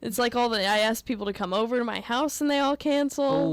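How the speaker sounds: mock bewilderment. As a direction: puzzle aloud as if comically stood up. Joking hurt at repeated cancellations.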